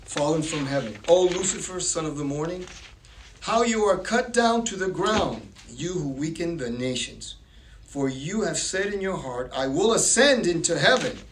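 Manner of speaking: emphatic Bible reading, swelling on the boasts; declamatory scripture reading. A narrator's reading. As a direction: proclaim the prophecy with rising force. Reads Isaiah aloud.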